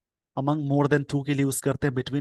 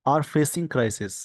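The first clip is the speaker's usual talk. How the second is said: slow dictation; 2 semitones higher, much slower than usual. Shown as a demonstration. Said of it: "slow dictation reading".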